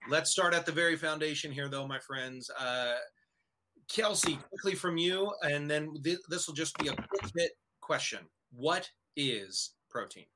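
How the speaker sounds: big show-host announcer delivery; radio announcer voice. Pretend. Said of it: "do the radio announcer voice".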